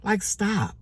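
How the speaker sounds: telling her racing thoughts to stop, high and sharp. Retold or imitated. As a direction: cut your own thoughts off with a high stop. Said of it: "I was like".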